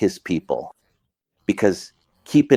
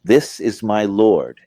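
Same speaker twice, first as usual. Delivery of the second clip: slow, questioning rebuke; reproachful question; 4 dB louder than usual. Shown as a demonstration. Teacher showing Abraham rebuking his people, slow reproachful question. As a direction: ask it slowly as a reproach. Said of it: "the second one is a question, a rejection, and even a rebuke".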